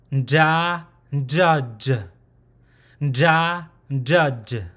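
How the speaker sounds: "nda, ndud" with a short N leading in; tongue behind the upper teeth for "nda, ndud"; nasal before the consonant. Shown as a demonstration. Teacher showing number eighteen, demonstrated nasal-onset pronunciation. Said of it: "there's a nasal sound before the sound".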